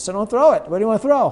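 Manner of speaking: high laughing reply; voicing the catcher through laughter; catcher amused. Catcher answering pitcher.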